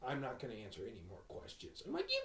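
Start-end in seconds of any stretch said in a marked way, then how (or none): 0.1-1.8 curt lady. Retold or imitated. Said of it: "she's like". 2.1-2.2 high, loud laughing outburst; mock outrage. Friend telling a funny story, laughing mock-outraged outburst.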